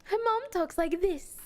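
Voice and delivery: a hint of a proper British mother; British mom voice. Shown as a demonstration. Streamer demonstrating the British mom voice, light British accent. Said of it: "I made her mom British".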